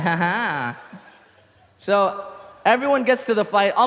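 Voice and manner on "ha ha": mock scheming laugh. Comedian recalling his plan to trick the boxer, mock sly laugh. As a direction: imitate a plotter's sly chuckle.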